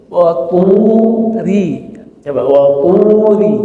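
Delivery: "turi" with a thin, light ri, long drawn tu; ri tipis. Shown as a demonstration. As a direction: chant "wa turi" slowly, keeping the ri thin. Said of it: "ri, ri ya tipis ya". ("turi" dilantunkan panjang dengan ri tipis)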